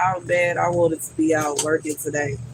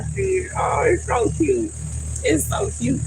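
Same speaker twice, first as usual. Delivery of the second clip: cooing delight; 12 semitones higher than usual. Real, not acted. Cooing at her little pepper plant, delighted.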